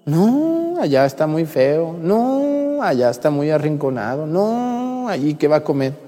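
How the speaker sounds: each No squeaked up high, then a worried mutter; mock-fret like a fussing parishioner; imitating worried parishioners fussing over the priest; fretful protest. Parishioners fretting about new parish.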